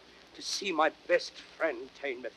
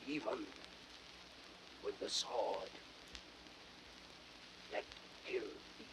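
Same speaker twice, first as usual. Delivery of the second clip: dying words; 4 semitones lower, 19 dB quieter than usual. Acted. Cassius dying on the sword.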